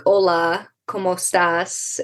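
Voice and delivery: put-on heavy American accent on Spanish, slow; mock a classmate's unadapted Spanish accent; flat English-accented Spanish. A student mimics classmates' flat English-accented Spanish. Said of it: "other kids in my Spanish class sound like".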